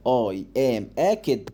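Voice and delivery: slow, word by word; slow reading. Shown as a demonstration. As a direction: read it gently for the child. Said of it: "ده بالراحة أهي". (قراءة بالراحة)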